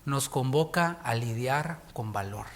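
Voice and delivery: slow, declaiming the Mexican anthem line; slow solemn recitation; reciting anthem lines. Acted. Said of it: "hay una línea en el himno que dice".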